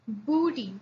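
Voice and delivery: Booty with a firm hard b. Shown as a demonstration. Teacher repeats the hard b. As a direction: say Booty pressing the b. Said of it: "pronounce it".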